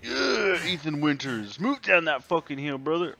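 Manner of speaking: loud, high pumped-up cheer; hyped cheering. Real, not acted. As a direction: hype up the character. Cheering on game character.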